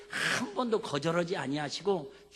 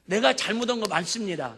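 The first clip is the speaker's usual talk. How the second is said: higher, louder plea building to a shout; Hezekiah protesting; 4 semitones higher, 9 dB louder than usual. Acted. King Hezekiah arguing with God for his life, pleading shout. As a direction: argue with God, rising to a cry. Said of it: "이렇게 따집니다".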